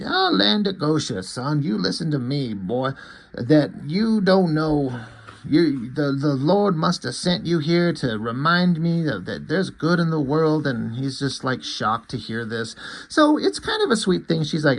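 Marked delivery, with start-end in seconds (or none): 0.0-10.7 a hint of folksy churchgoing elder; exhorting mother-in-law. Mother-in-law tells him there is good, lightly voiced, earnest.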